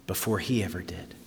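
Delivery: breathy hushed whisper. Acted. Preacher hushing the congregation, whispered. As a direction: drop to a whisper for effect.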